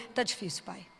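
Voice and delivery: quiet, humble plea to God the father; soft prayer to father. Pretend. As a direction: lay it before him softly. Child praying to father.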